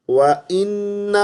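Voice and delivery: وَإِنَّ with an "e" vowel, the wrong way; common mistake. Shown as a demonstration. Teacher demonstrates the wrong وَإِنَّ. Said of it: "اے کے ساتھ پڑھتے ہیں، اے نہیں پڑھنا".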